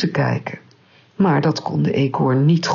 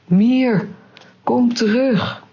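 high, drawn-out calling, barely louder; understated loud call; 8 semitones higher, slower than usual. A narrator's reading. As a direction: call someone back from afar, mildly raised. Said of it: "riep hij zo hard als hij kon". (ingehouden naroepen, hoog en gerekt)

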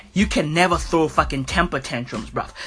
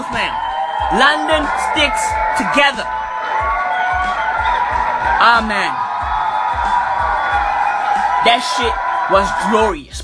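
gloating shout; 4 semitones higher than usual. Real, not acted. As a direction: shout it in celebration. Celebrating rival's win.

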